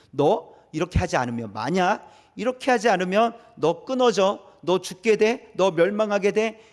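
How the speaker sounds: a light threatening warning, rising in force; mock threat. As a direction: voice God as if threatening, mildly. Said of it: "약간 협박하시는 것처럼". (가볍게 협박하는 말투)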